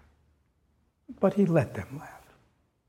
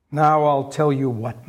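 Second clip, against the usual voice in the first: slow, louder threatening Scrooge; stern Scrooge; 5 dB louder than usual. Acted. Scrooge threatening Bob, slow and stern. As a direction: build a threat slowly. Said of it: "said Scrooge".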